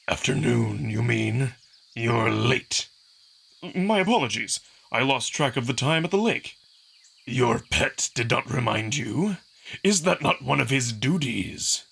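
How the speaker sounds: slow, cold and clipped master; strict trainer scolding a late pupil; stern Kato. Acted. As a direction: rebuke with icy calm. Kato reproaches Amicus.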